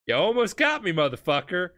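Dio snarls at Polnareff after nearly being killed, mock snarl.

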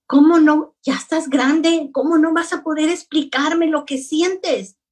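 imitating a son's insistent disbelief; incredulous reproach. Son pressing his mother to explain what she feels, retold incredulous reproach.

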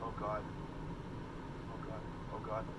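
scared horror game streamer. Real, not acted. Dreading horror, low quiet.

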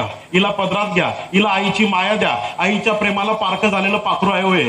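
a hint of the old servant mother begging; mild plea of a worn-out maid handing over her daughter; pleading poor mother. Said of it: "त्या चित्रपटातला हा dialogue आहे".

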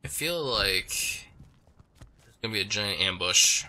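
talking through hiccups and burps; hiccuping. Real, not acted. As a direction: hiccups breaking the words. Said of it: "Sorry, I can't stop hiccuping or burping".

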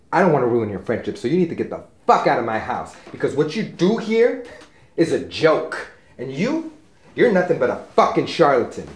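fast, loud, spitting insults at him; angry outburst. Acted. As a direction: throw him out of the house, furious. Throwing the psychic out, furious.

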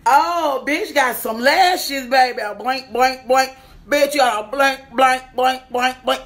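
excited. Real, not acted. Thrilled unboxing lashes.

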